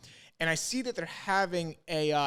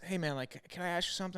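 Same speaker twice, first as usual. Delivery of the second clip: creepy stranger; 2 semitones higher, 6 dB quieter, faster than usual. Retold or imitated. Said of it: "kinda weirdly, he goes".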